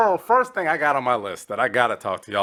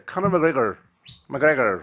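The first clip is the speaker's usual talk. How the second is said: put-on Irish accent; 3 semitones higher, 3 dB louder, slower than usual. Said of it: "that was it right there".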